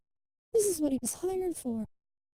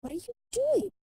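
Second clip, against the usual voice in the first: much higher, louder shouted question; doctor's shout; 9 semitones higher, 4 dB louder than usual. Acted. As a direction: yell at him in alarm. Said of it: "Doctor shouts at him".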